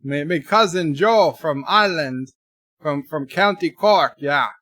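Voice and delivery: lively mock Irish hologram servant; amateur stage-Irish accent. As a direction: put on a hammy Irish brogue. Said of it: "my emergency Irish hologram".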